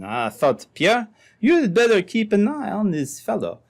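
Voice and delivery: put-on light French-Canadian trapper's accent. French trapper explaining to the sergeant, light French accent. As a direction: speak as a French trapper telling his story. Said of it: "this half-baked Frenchman".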